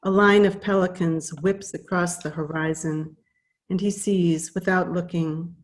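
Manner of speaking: measured verse reading, line by line; each line starts firmly and settles at its end; poetry reading. Acted. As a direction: read the poem aloud, pausing between lines. Reads second poem aloud.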